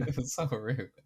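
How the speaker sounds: complaint broken up by laughter; laughing. Real, not acted. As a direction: laugh through the outrage.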